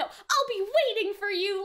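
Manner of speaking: slow, drawn-out haughty line; a touch of a lofty, self-satisfied delivery. Retold or imitated. English voice actor taunting Rui about the duel, haughty. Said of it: "the English actor did a very, like, haughty".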